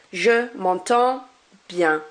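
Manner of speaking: slow demo, "m'entends" stopped on the nasal vowel; "m'entends" with its ending left silent; silent final consonants. Shown as a demonstration. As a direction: break before "bien", no D or S in "m'entends". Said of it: "I stop my pronunciation".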